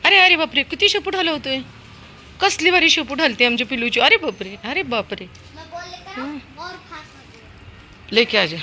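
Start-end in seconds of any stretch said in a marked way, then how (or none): 0.0-5.3 high, gushing coo over the wagging tail; delighted pet talk to the puppy. Real, not acted. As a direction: gush at the puppy like a proud owner.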